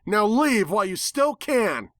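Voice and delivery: a high, breathy warning whisper; a threat under the breath. A narrator's reading. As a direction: hiss the warning. Twilight warns the nightmare.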